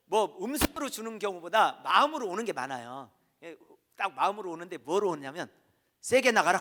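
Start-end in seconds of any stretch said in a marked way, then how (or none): 6.0-6.6 God's command. Retold or imitated. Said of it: "그러더라고요".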